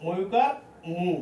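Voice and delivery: ময়ুকার মু drawn out slowly, syllable by syllable; ধীরে ধীরে ভেঙে ভেঙে ময়ুকার মু বলুন; slow spelled-out demo. Shown as a demonstration. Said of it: "এটা কি হবে মু". (শিক্ষক ছাত্রদের জন্য ধীরে উচ্চারণ দেখাচ্ছেন, ধীর স্পষ্ট স্বরে)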